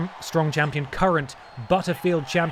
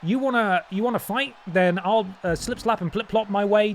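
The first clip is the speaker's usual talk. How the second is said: higher, taunting villain voice; Gollum's voice; 5 semitones higher than usual. Pretend. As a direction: gloat like a cocky champion. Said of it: "What could Gollum possibly be saying?".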